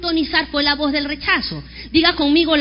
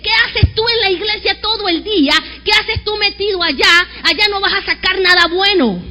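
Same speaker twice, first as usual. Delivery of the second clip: sneering, louder taunt; mocking scorn; 2 semitones higher, 4 dB louder than usual. A scornful voice mocking a churchgoer, sneering. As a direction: belittle them for going to church. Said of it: "la voz de aquel que te dice".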